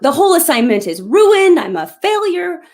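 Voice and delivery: mother retelling her crying daughter's outburst, mock distraught cry; retold distraught scream. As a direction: replay the daughter's despair, half acted. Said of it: "she screams out".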